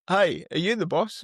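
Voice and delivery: retold hail to a man overhead; calling up. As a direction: call up to someone high above, lightly acted. Calls up to boss on ladder.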